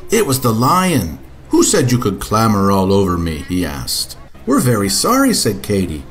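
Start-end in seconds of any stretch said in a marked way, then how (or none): 1.5-3.4 lower, louder lion; a booming big lion. Acted. Lion voice, deeper than narration. 4.5-5.3 put-on much higher child voice; little girl voice. Katy voiced, girl character.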